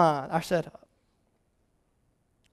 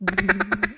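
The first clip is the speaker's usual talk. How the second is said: fast duck call; 3 semitones lower, 6 dB quieter than usual. Shown as a demonstration. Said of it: "you could go like".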